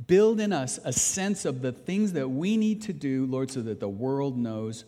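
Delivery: pastor leading the church in closing prayer, earnest. Real, not acted.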